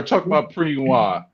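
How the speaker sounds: PREENWA mimicked with its extra R; mocking the wrong word Preenwa; mocked mispronunciation. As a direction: quote Preenwa back as PREEN-wah. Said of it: "there ain't no R in there".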